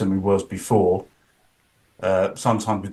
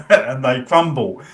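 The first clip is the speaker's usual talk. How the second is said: laughing; 2 semitones higher, 3 dB louder, slower than usual. Real, not acted. Laughing about nervous macho men.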